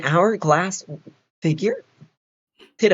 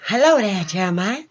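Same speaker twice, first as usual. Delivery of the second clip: hello lifted higher, name dropping back; shifted voice; 5 semitones higher than usual. Shown as a demonstration. Proving to a friend he can shift his voice, lifted. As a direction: show off a changed voice on hello. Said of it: "easily able to manipulate my voice".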